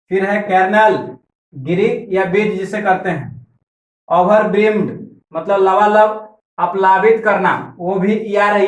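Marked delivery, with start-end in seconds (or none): 4.1-4.9 ओवरब्रिम्ड said with its start read as "over"; pronunciation with "over". Shown as a demonstration. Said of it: "इसको ओवर पढ़ेंगे". (ओवरब्रिम्ड में शुरू में "ओवर" का उच्चारण)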